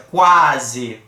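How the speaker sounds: "Quase" pronunciado normalmente; low demo word. Shown as a demonstration. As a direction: say "Quase" with no nasal block. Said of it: "Eu falei normalmente".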